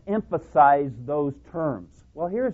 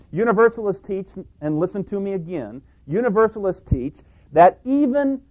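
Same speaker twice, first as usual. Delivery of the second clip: rising, louder pulpit declaration; preaching at full force; 5 semitones higher, 6 dB louder than usual. Acted. Preacher building to a loud declaration for the congregation. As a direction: press the point hard from the pulpit.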